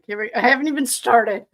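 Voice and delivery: half-joking complaint before she has even begun; light whining. Real, not acted. Whining a little to her viewers before reading on. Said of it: "Okay, I'm whining".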